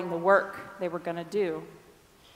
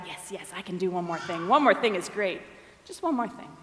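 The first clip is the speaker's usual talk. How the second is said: softer, muttered to himself; quiet inner thought; 4 semitones lower, 6 dB quieter than usual. Retold or imitated. Rich man quietly reassuring himself about one more thing. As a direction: think it aloud under your breath. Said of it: "I'm sure in the head".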